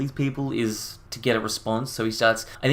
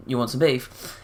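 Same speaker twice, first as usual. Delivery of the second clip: calm, suggestive; slower than usual. Shown as a demonstration. Prankster gently offering beef to a stranger, calm and suggestive. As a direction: offer it calmly, with a light suggestion. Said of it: "calmly or suggestively".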